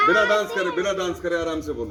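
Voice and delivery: firm call to say it calmly; sharp scolding. Real, not acted. Teacher scolds the dancing children. (बच्चों को डाँटते हुए ऊँची आवाज़)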